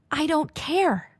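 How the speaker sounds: high-pitched, exasperated retort; indignant protest, retold with a pitch jump; retold indignation. Retold telling-off of the manager.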